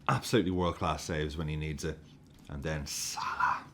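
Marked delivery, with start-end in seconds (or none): 2.5-3.6 hushed whisper. Real, not acted. Awed whisper before a goal.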